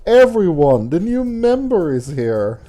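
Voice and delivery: Sayori voice. Acted. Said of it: "I'm trying my best to do voices".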